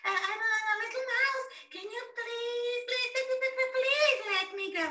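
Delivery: high, timid begging; pleading mouse. Acted. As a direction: plead for your life. Frightened mouse begs.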